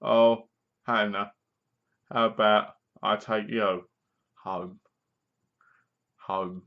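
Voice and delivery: slow, low, sinking mock seduction; lightly voiced clumsy flirt dropping to a murmur; a hint of a bad pickup line, fading out; Jeff impression. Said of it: "This is Jeff".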